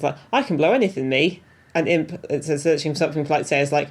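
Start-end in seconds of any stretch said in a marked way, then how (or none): 0.3-1.4 put-on Scouse accent. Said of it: "again with the accents".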